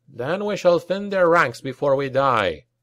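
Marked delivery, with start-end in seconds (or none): none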